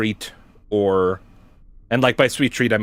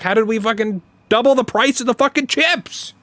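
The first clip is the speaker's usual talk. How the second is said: higher, stress on "fucking double"; heated disbelief; 11 semitones higher than usual. Retold or imitated. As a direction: hammer "fucking double" in mock outrage. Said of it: "I was like, I was like".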